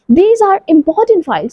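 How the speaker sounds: very slow and clear; slow model sentence. Shown as a demonstration. Teacher modeling for pupils, very slow. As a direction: say it slowly for the children. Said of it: "model sentence".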